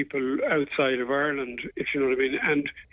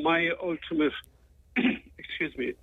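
cracking throat, then a throat clear; frog in throat; 4 semitones higher, slower than usual. Real, not acted. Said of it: "I seem to have a frog in my throat".

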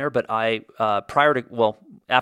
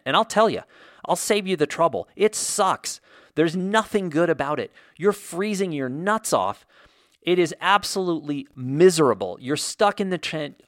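higher, pained griping about the cold; exasperated rant; 5 semitones higher than usual. Real, not acted. Podcaster warns listeners about Arctic tent camping, exasperated. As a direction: warn them off, fed up with misery.

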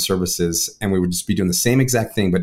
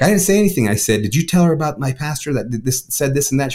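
much higher, puzzled friend's voice; friend's baffled denial; 5 semitones higher than usual. Retold or imitated. Friend Shelby voiced in story.

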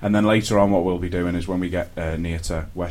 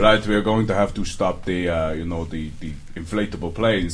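mock Russian accent. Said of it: "the Russians are gonna go".

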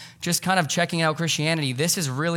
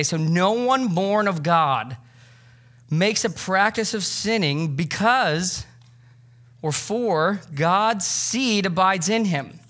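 scripture reading; 3 semitones higher, slower than usual. Acted.

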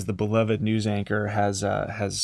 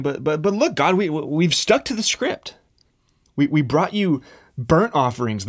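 higher, louder protest, stammering but but but; indignant pleading; 5 semitones higher, 3 dB louder than usual. Acted. People protesting to God they stuck to the script, higher and pleading. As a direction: insist you did everything right, a little wounded.

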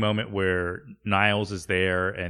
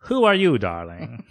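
B B Glazer; 5 dB louder than usual. Acted. Agent fails to recognize Roz, grand imperious voice. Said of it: "B B looks at Roz and says".

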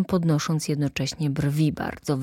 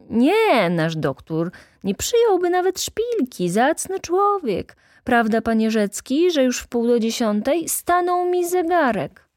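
high, animated clerk making excuses; theatrical, pitched-up denial; indignant protest; 9 semitones higher, 3 dB louder than usual. A narrator's reading. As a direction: swoop up high in protest, then appeal. Clerk defends himself with excuses.

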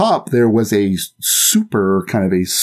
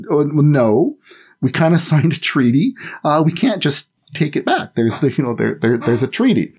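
mock government excuse; 4 semitones higher than usual. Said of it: "And the Italian government's like".

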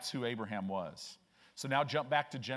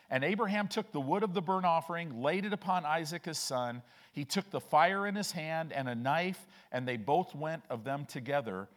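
raised, declaimed Bible reading; emphatic pulpit reading in measured phrases; scripture reading aloud; 2 semitones higher than usual. Real, not acted. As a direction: read the verse out to a congregation.

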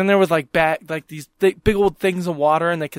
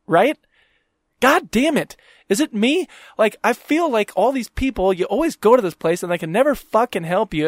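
retold rant; 4 semitones higher than usual.

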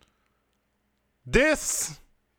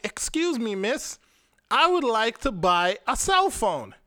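put-on posh polite accent; 4 semitones higher than usual. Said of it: "in my very eloquent, very nice accent".

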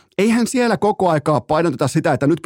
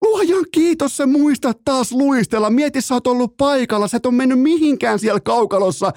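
mock sympathy; 9 semitones higher than usual. Mocking the forgetful hockey player.

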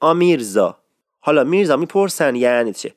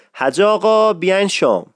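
calling out; 4 semitones higher than usual. Shown as a demonstration. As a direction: stretch آقا in حج آقا to call him to dinner.

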